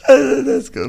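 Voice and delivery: sudden high, loud whoop; pumped-up let's go; excited cheer. Real, not acted. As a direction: hype it up like a crowd. Host cheering on the story.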